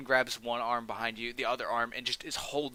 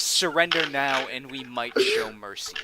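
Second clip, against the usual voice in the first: slow commanding warning; lightly voiced lord demanding surrender, slow; slow stern ultimatum; 5 dB louder, slower than usual. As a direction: lay down terms slowly. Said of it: "he looks to you and he says".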